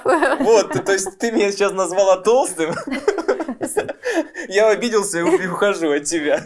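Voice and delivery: high, laughing mock-hurt dog; offended puppy voice. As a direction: squeak out a fake huff. Host voices offended dog puppet. (голос обиженного щенка)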